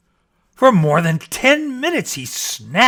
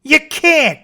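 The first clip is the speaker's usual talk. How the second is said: high, loud sharp denial; snapping rabbit; 13 semitones higher, 8 dB louder than usual. Acted. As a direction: snap it at the bear. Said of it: "snapped the rabbit".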